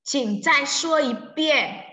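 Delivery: slow, clear Mandarin model sentence; slow model reading. Shown as a demonstration. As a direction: read it slowly for students to copy. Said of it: "teacher models sentence".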